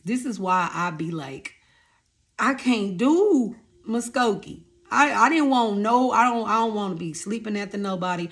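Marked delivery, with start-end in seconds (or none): 2.4-8.3 exasperated venting. Real, not acted. Venting about the town.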